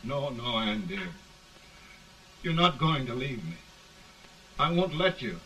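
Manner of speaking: loud, anguished pleading; desperate pleading. Acted. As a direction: beg her not to go. Man pleads with dying love.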